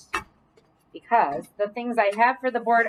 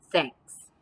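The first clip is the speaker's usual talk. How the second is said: lightly voiced gruff bear; a hint of a shy bear; low bear voice; 4 semitones lower than usual.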